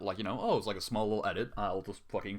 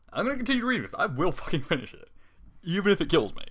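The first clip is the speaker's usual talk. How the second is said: higher, loud, gritted determination; exasperated vow; 8 semitones higher, 5 dB louder than usual. Real, not acted. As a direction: push through it, half-yelling. Vows to finish the awful story.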